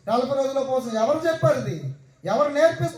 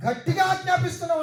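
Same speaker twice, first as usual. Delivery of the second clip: mock forceful command; 4 semitones higher, faster than usual. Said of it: "ఎలా మాట్లాడతారు?".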